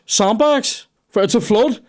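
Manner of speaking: hammed-up smug manager; mock manager. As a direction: send up the clueless boss. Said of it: "And he goes".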